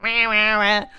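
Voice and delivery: mimicked babbling "wah, wah, wah"; mock someone's noise as wordless wahs; imitated wah-wah noise. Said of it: "she's like".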